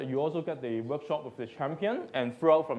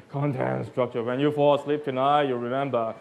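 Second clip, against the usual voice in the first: hypnotized tone; 3 semitones lower than usual. Shown as a demonstration. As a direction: make them fall asleep. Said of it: "Do it in a hypnotized tone".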